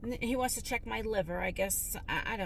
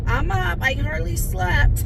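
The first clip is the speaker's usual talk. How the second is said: higher and slow, like a groggy post; high, drawn-out tired quote; 8 semitones higher, 13 dB louder, slower than usual. Retold or imitated. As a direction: stretch it out, pitched up. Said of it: "And I'm like".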